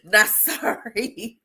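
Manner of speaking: slow, lightly voiced rapper swagger; a hint of a laid-back rapper shrugging it off; a rapper's voice. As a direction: drag it out, unbothered and defiant. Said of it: "In my rapper voice".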